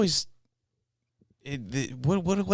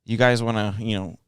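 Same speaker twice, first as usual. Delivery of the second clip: put-on New York accent; 3 semitones higher, 5 dB louder than usual. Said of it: "giving them, like, a New York".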